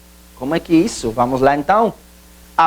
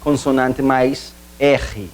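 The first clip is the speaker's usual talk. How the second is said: slow teaching; 3 semitones lower, much slower than usual. Shown as a demonstration. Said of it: "Também não se separam".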